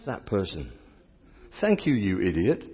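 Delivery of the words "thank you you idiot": very nice tone. Shown as a demonstration. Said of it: "In a very nice tone".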